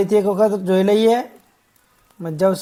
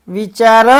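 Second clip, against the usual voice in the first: વિચાર brisker and a little louder; loud drill word; 4 dB louder, much faster than usual. Shown as a demonstration. Teacher leads children to repeat after them, loudly. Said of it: "બોલજો જોરથી".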